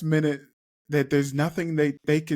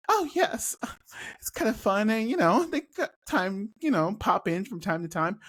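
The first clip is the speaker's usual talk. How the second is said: breezy hippie voice; 6 semitones higher than usual. Acted. Hippie Chloe answers breezily.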